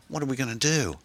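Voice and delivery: high, worried question; anxious plea. A narrator's reading. Passenger to driver in a car chase, anxiously. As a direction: plead it high, at a loss.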